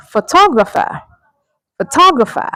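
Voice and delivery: "photographer" as fuh-TOG-ruh-fer; high punch on TOG in "photographer", then fall; careful repeated model "photographer" with second-syllable stress; correct pronunciation. Shown as a demonstration. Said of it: "that's how to pronounce that word".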